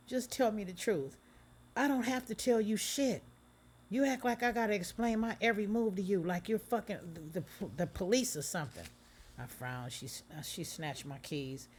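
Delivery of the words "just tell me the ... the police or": high, loud angry back-and-forth; heated argument. Acted. Couple screaming at each other over Aaliyah, angry. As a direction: fight back hard.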